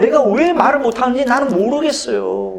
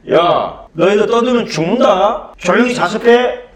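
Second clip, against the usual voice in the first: raised, stern teacher threat; teacher's warning. Retold or imitated. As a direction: bark a warning at the class. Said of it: "선생님이 한마디 말하는 거예요".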